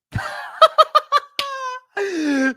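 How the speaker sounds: helpless high cackle at a joke; high-pitched laughing fit. Real, not acted. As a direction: burst out in a high, loud laugh. Cracks up at the accent joke.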